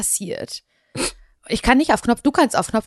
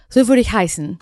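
Mecklenburg accent; 3 semitones higher, 8 dB louder than usual. Shown as a demonstration. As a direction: stretch the vowels the Mecklenburg way. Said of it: "auf Mecklenburg-Vorpommerisch".

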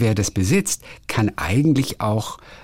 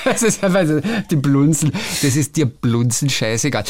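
raised, singing Viennese accent; Viennese dialect; 4 semitones higher than usual. Shown as a demonstration. Recalling a Viennese phrase for the co-host, put-on Viennese dialect. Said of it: "kann man das, äh, wienerisch sagen".

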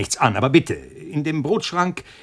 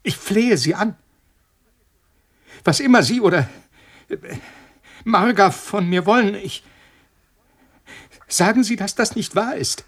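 desperate pleading; 3 semitones higher than usual. Acted. Scientist begs his poisoner, desperate pleading. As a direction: plead for your life, breaking.

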